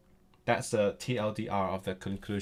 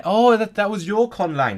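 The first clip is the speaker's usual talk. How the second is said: excited; 10 semitones higher, 8 dB louder than usual. Real, not acted. Excited reaction to chat.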